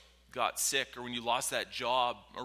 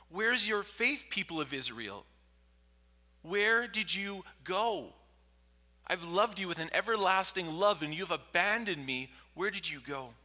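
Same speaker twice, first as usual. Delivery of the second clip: high, raised, impassioned questioning; anguished rebuke from God; 7 semitones higher, 5 dB louder than usual. Acted. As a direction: cry out to a people who left. God rebuking Israel in Joel.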